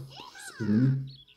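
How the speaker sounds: mock high voice. Mock reply to game character.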